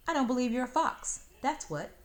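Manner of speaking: put-on high, loud, fast sassy child; defiant girl. Girl tells fox she doubts him, high and loud. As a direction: fling the doubt right at him.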